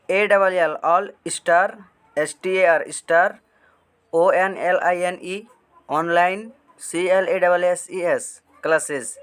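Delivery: slow, careful spelling-out; slow dictation. Shown as a demonstration. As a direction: spell each letter out slowly. Spelling channel name for viewers.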